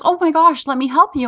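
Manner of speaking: sorry and eager to help; apologetic husband. Retold or imitated. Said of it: "And he goes".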